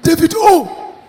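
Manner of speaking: mild mock pleading; pleading boyfriend. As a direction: push harder so she remembers. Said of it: "He said".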